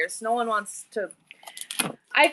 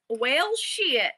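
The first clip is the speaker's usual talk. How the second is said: put-on son's twangy accent, drawn out lightly. Mom imitating her son's pet phrase, put-on accent. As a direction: lightly mimic the kid's accent. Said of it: "in that accent all the time".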